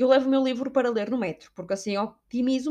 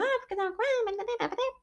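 much higher, slow put-on voice; flustered self-quote; 12 semitones higher, 5 dB quieter, slower than usual. Telling the boy why she read, high and flustered. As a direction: stammer the excuse, drawn out. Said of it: "E eu".

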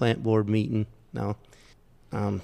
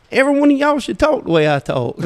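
high, loud scolding retold with gusto; scolding the room; 12 semitones higher, 5 dB louder than usual. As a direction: scold them like a proud Southern preacher. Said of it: "And I got on to 'em".

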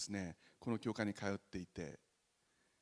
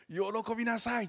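higher, bright call to rejoice; joyful Jesus; 10 semitones higher, 3 dB louder than usual. Retold or imitated. Risen Jesus greeting his disciples, joyful call. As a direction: lift it like good news. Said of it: "って".

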